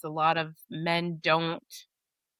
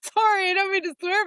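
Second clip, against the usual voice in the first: higher, louder, laughing through an apology; 13 semitones higher, 5 dB louder than usual. Real, not acted. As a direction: giggle out a sheepish sorry. Laughs after swearing.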